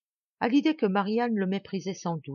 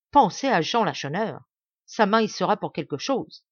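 louder, bitter accusations hurled at the marquis; furious outburst; 4 dB louder than usual. Acted. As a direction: rage barely held back, spitting each grievance. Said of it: "s'écria-t-il". (colère amère et éclatante)

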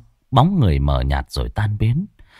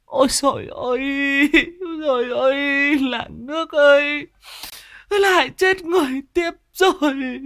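put-on much higher, shrill cry of an old woman in terror; panicked wail. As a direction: wail out to the whole village. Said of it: "tiếng hô thất thanh".

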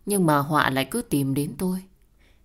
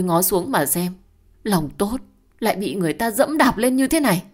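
wailing lament; 3 semitones higher, 4 dB louder than usual. Acted. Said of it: "con Hoa ôm đầu khóc toáng".

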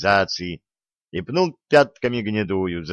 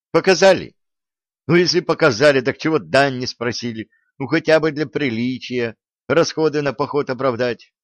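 higher, louder incredulous challenge; exasperated questioning; 4 semitones higher, 4 dB louder than usual. Acted. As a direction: press the point in exasperation, easing in volume. Exasperated quizzing in an acted dialogue. (возмущённо, на повышенных тонах)

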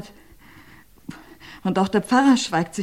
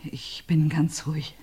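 whispered; 5 dB quieter than usual. Acted. Answers the plea to stay calm.

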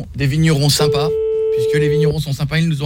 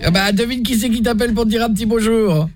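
prank caller in a put-on Midi accent, pitched up; southern French accent; 5 semitones higher than usual. Prank caller to Thérèse, fake Midi accent. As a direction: sing the Midi twang while asking her to guess. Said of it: "l'accent du Midi".

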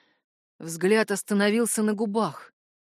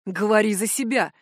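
ordinary delivery

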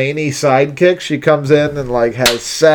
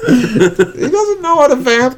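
Liam Hemsworth impression; 10 semitones higher than usual. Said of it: "That's my Liam Hemsworth".

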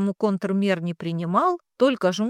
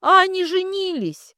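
high, loud tearful cry; a sobbing wail of accusation; 11 semitones higher, 6 dB louder than usual. A narrator's reading. Bride tells his parents through tears, crying out. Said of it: "рыдая, сказала Катенька".

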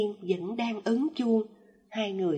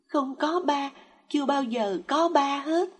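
high, louder tearful denial; a child crying out through tears; 5 semitones higher, 5 dB louder than usual. A narrator's reading. Child crying to his raging mother, high and louder. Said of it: "Nó vừa khóc vừa nói".

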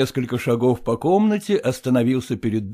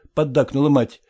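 plain reading voice

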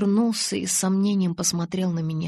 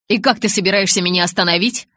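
teasing; 8 dB louder than usual. Acted. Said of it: "подразнил он".

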